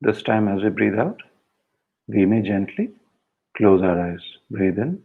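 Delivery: unhurried meditation instructions with pauses between phrases; guided meditation. Shown as a demonstration. Instructor guiding a group to close their eyes, guided meditation. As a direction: gently lead the group through each breath.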